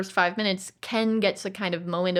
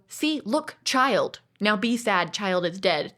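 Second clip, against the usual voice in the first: mock narrator voice; slower than usual. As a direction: spell it out like a patronizing film. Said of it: "they did not go".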